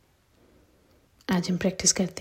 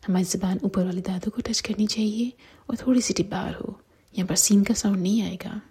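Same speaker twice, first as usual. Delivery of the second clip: whisper. Real, not acted. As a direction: whisper each rule gently to the listener. Whispered Quran tajweed lesson.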